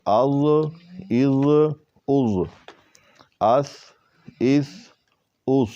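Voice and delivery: "از" and "اس" said plainly, without a hiss; no whistle. Shown as a demonstration. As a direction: compare the letters without a whistle. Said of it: "سی ٹی کی آواز نہیں آئی".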